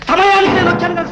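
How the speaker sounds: high, forceful accusation; jealous outburst. Acted. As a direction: burst out accusingly at your wife. Jealous husband accuses wife. (అసూయతో గట్టిగా అరుస్తూ)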